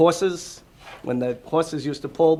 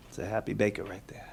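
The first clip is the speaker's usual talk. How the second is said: whispered aside; 5 semitones lower, 8 dB quieter than usual. Real, not acted.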